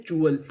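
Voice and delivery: TUAL read as "चुअल", with a ch sound; teacher models "चुअल" with a ch onset; code pronunciation. Shown as a demonstration. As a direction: say "चुअल", starting with ch as in chew. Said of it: "को हम लोग पढ़ते हैं".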